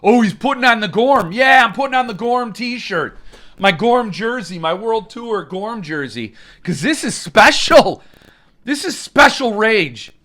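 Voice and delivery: mock hype. Hyping himself in the Gorm shirt.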